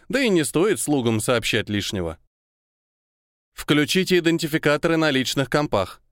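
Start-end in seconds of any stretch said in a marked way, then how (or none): 3.5-6.0 flat synthesized speaker voice; old speech synthesizer. Acted. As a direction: read it like a gate intercom machine. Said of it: "раздался синтезированный голос из динамика".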